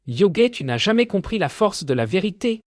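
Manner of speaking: high, fast angry rant; villain shrieking as he grabs a blade; howling. A narrator's reading. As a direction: rush it out in a rage. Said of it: "Yo, hurle-t-il".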